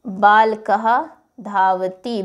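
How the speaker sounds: slow, careful Sanskrit reading; slow model reading. Shown as a demonstration. Teacher modelling the sentence slowly for students. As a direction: spell it out slowly for the class. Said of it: "आप कहेंगे".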